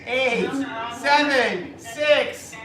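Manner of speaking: countdown building to a shout; new year countdown crowd. Real, not acted. Counting down to midnight.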